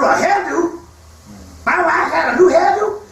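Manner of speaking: incredulous, rising question, shouted; surprised husband. Retold or imitated. Hunting buddy told about his wife's hairdo, surprised.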